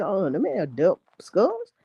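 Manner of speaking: high, put-on voice for the priests; mock priests. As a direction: play the priests owning up in a high voice. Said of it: "They like".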